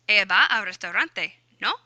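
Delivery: statement, then "no" lifted as a question; tag question. Shown as a demonstration. Spanish teacher adding a tag word, questioning "no". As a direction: add a short questioning "no" at the end. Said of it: "then that becomes your question".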